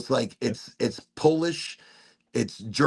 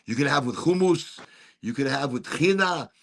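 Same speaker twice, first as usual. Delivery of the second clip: Middle Eastern accent. Real, not acted. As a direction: Middle Eastern pronunciation of the dish names. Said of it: "you get me all Middle Eastern".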